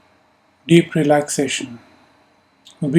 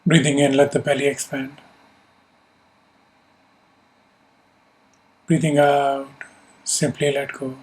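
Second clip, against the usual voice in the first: calm, measured meditation guidance; unhurried instructions with long pauses to let them settle; guided meditation. Real, not acted. Teacher settling a group into yoga nidra, calm guided meditation. Leads a seated breathing meditation.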